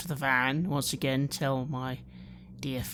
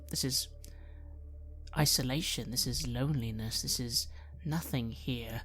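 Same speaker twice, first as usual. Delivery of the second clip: sad; 4 dB quieter than usual. Acted. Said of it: "I feel sad".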